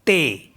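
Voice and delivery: ते with a short e; French thé. Shown as a demonstration. Teacher demonstrating acute accent word. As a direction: say ते, clipped e sound. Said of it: "तो इसको हम पढ़ेंगे".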